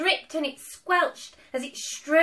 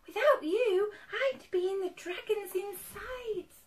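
high-pitched voice full of gratitude; grateful cry; 7 semitones higher than usual. A narrator's reading. Witch thanking friends who saved her, grateful. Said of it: "the grateful witch cried".

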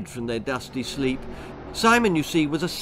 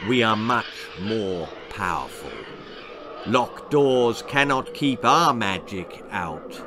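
snarling beast; 3 semitones lower than usual. A narrator's reading. Troll leader threatens the trapped crowd, snarling. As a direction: gloat like a monster. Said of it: "snarled the leader".

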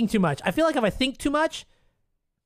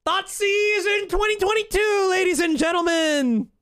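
much higher, laughing announcer shout; hype announcement; 9 semitones higher than usual. Real, not acted. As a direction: play it to the crowd. Hyping a lucky topdeck.

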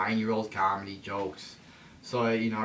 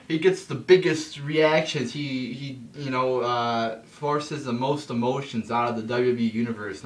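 mocking hype announcer; 4 dB louder than usual. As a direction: ham it up like a wrestling commentator overselling. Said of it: "the announcer's like".

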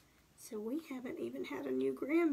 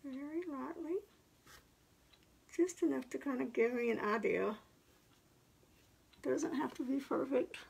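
paintbrush in mouth. Real, not acted. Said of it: "talking with my paintbrush in my mouth".

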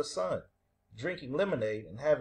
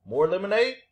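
higher, slightly louder hopeful question; helpful offer; 4 semitones higher, 5 dB louder than usual. A narrator's reading. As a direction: offer it helpfully, lifting the end.

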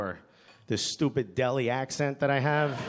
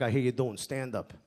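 lower, softer menacing uncle; veiled threat; 4 semitones lower, 4 dB quieter than usual. Retold or imitated. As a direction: make small talk sound like a threat. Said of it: "sound like a threat".

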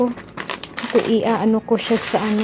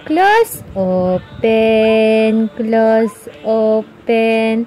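sing-song cue; 3 semitones lower, much slower than usual. Shown as a demonstration.

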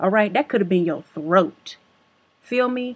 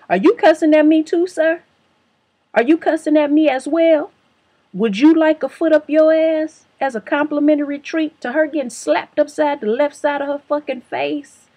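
shouting, pitch up high and loud; furious high-pitched yelling at the sandal guy; 7 semitones higher, 6 dB louder than usual. Retold or imitated. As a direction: yell at him in outrage. Yelling back at the man.

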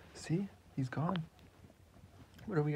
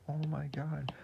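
Papadato voice; 4 semitones higher than usual. Acted. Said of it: "Papadato, it's like".

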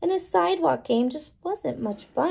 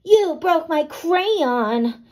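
slow, louder, higher crabby complaint; crabby Tilly; 6 semitones higher, 5 dB louder, much slower than usual. A narrator's reading. Girl to friend about her broken crayon, crabby. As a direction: whine it out like a cross little girl. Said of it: "Tilly said in her crabbiest voice".

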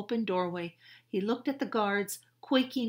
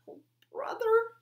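higher exasperated whisper under the breath; whispered mutter; 7 dB louder than usual. Acted. Jack whispering his exasperation at his sister. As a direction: sigh it out in a whisper. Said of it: "Jack muttered".

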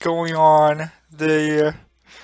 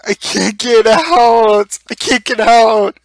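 louder, higher frantic yelling; frantic, stuck; 3 semitones higher, 6 dB louder than usual. Real, not acted. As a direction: panic at being trapped, voice pushed up.

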